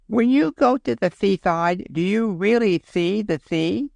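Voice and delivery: put-on high, eager little boy; small boy's voice. A narrator's reading. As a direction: ask like a curious three-year-old.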